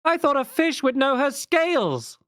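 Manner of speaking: high mocking woman's call; woman heckler calling out. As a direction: call out a jeer across the crowd. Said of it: "she calls out".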